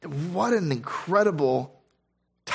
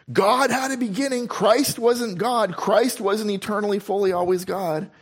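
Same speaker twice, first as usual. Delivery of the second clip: high-pitched imitation of a mistaken claim; mock false teacher; 6 semitones higher than usual. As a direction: voice the wrong argument in a raised pitch. Voices false teachers' objection.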